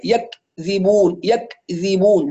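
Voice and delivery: يكذبون broken after a hard clicked k; clicked kaf. Retold or imitated. Teacher mimics another error, kaf clicked off. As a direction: cut يكذبون in two, yak, dhibun. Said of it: "أو يعمل تك".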